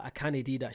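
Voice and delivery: "can't do" said as "cannae dae", in Scots; Scots slang pronunciation. Retold or imitated. Telling girlfriend what slips out, in Scots slang. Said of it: "Now I'm saying a lot of slangs".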